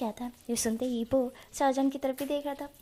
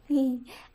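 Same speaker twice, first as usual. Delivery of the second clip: short giggle; 3 dB louder than usual. Real, not acted. Giggles at the embarrassed character.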